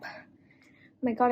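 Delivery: panting after heavy lifting; breathless and slow; out of breath. Real, not acted. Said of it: "I'm panting".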